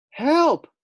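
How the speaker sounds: high, loud squeal of panic; panicked cry. Acted. Scared pig Fluffy squeals for help at the masked firefighter. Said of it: "thought Fluffy".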